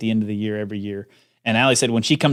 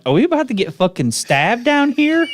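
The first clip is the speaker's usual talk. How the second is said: mock panic; 12 semitones higher, 3 dB louder than usual. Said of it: "I'm like".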